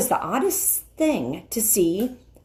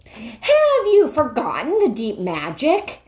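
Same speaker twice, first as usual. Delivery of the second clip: louder, mocking challenge; challenging witch; 7 semitones higher, 4 dB louder than usual. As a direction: taunt the lion.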